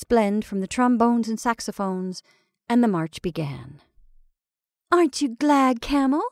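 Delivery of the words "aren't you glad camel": sweetly. Acted. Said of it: "demanded Betty sweetly".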